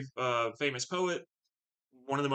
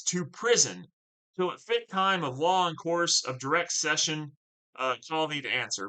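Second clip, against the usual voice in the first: stern Brabantio line; 2 semitones higher than usual. Acted. Brabantio answering Othello, mildly stern reading. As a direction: order him off to prison sternly.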